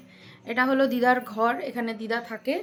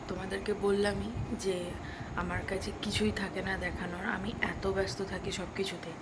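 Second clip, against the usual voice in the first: speaking softly; 6 dB quieter than usual. Real, not acted. Vlogger keeps her voice down while the baby sleeps, soft. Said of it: "আস্তে আস্তে কথা বলছি".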